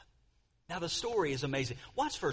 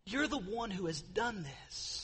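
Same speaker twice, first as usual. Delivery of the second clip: softer, slow, heartbroken; trembling voice; 5 semitones higher, 4 dB quieter, slower than usual. Retold or imitated. Nathan to his friend David, soft slow grieving tone. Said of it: "with a trembling, shaky voice".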